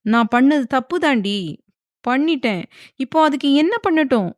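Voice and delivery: rising to a high yelled question; angry shout. A narrator's reading. Husband shouts back at his wife in anger. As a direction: shout it in frustration. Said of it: "ஆத்திரத்தில் கத்தினான் செழியன்".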